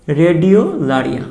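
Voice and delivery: রেডিওলারিয়া stretched out very slowly, syllable by syllable; slow drilled word. Shown as a demonstration. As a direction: drag out রেডিওলারিয়া so they catch every sound. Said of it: "Radha দিয়ে আমরা মনে রাখবো রেডিওলারিয়া". (রেডিওলারিয়া খুব ধীরে টেনে টেনে)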